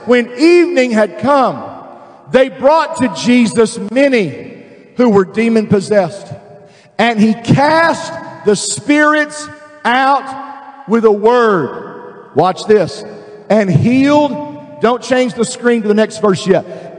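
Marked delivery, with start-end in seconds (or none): 0.1-12.3 deliberate, drawn-out scripture reading; slow preacher reading with long held words; really slow reading. Real, not acted. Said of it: "I'm gonna read it really slow". 13.5-14.8 each word drawn out; slow, weighty scripture reading; really slow reading. Real, not acted. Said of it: "I'm gonna read it really slow".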